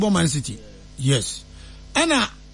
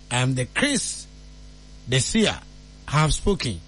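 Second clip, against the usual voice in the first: mock prophet; 8 semitones lower, 3 dB quieter than usual. Mock prophet sealing his score prediction.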